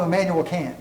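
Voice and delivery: mocking name, Kant pronounced like American "can't". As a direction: say Kant to rhyme with "ant". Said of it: "he took a little jab".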